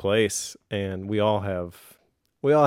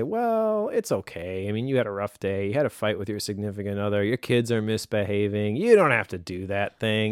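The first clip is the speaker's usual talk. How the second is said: indulgent self-excuse. Acted. Host voicing the victim mentality, indulgent self-excusing. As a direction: talk yourself out of it. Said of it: "take the victim mentality and you say".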